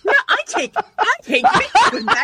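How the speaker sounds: high laughing protest. Real, not acted. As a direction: squeal it through laughter. Laughing mock boast.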